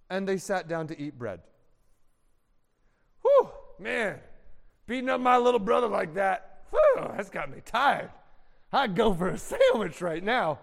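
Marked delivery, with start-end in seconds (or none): 3.2-10.6 winded, boastful brother; a cruel brother catching his breath and bragging; a mild mock tough guy, worn out; brother after the beating. Brother acting out brothers eating.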